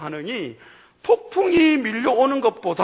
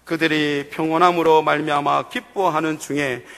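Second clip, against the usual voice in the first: lower, steady reading of the Psalm; scripture reading; 7 semitones lower than usual. Real, not acted. Pastor reading Psalm 107 with the congregation, steady. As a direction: read the verses evenly aloud.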